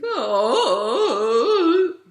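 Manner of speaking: loud, high, swooping sob hoots; goofy sobbed hooting. Shown as a demonstration. Coach demonstrating sob via Three Stooges, goofy hooting. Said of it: "So think Three Stooges".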